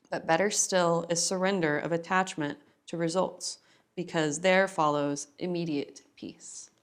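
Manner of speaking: measured, deliberate recitation with pauses between verses; scripture reading. Acted. Yoga teacher reads from the Bhagavad Gita before practice, measured reading. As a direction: read it like a sacred verse, each phrase given weight.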